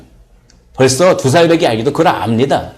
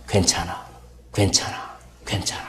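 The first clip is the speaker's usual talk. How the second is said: soft, unvoiced "괜찮아", much softer; soothing whisper; 6 semitones lower, 9 dB quieter than usual. Poet soothing her crying baby in a tender whisper. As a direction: breathe it gently to calm the baby. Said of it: "이렇게 바꿨다고 합니다".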